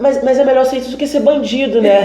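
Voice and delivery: high, stammering comic grandmother voice; imitated flustered grandmother. Grandmother consoling herself about gay grandson, comically flustered. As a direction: imitate a grandmother, laughter creeping in.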